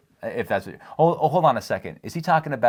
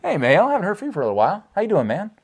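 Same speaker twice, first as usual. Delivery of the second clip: excited greeting; 10 semitones higher, 3 dB louder, faster than usual. Real, not acted. Greeting a returning commenter.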